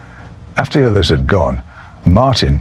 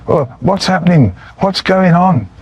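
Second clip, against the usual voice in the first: nervous wreck; 11 semitones higher than usual. Retold or imitated. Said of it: "a nervous wreck".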